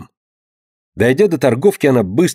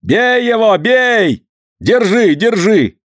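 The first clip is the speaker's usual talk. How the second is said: shouting after a thief; 10 semitones higher, much slower than usual. A narrator's reading. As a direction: yell to the whole market to catch him. Crowd chasing a thief.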